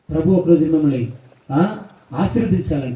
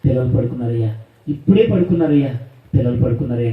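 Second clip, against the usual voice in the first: lower, hushed pleading wife's voice; 3 semitones lower than usual. Retold or imitated. Wife pleading with drunk husband. (భర్తను వేడుకునే భార్య, మెల్లగా)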